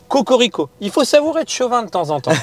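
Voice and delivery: excited. Pretend. Mock chauvinist pride, Cocorico.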